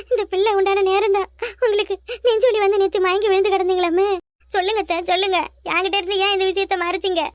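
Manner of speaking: staged tearful lament with sobs; put-on crying. Daughter-in-law asks mother-in-law why she was left out, fake crying. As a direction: weep out a wounded reproach. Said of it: "வந்தது வராதுமா அழுதுகிட்டு".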